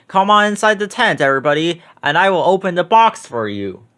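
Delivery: mild showman call; showman invite. Acted. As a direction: invite the crowd inside with flourish. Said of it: "the circus man would say".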